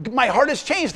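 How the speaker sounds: laughing lightly in disbelief; amused wonder. Real, not acted. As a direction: let a laugh slip, stressing changed. Marvels at the verse.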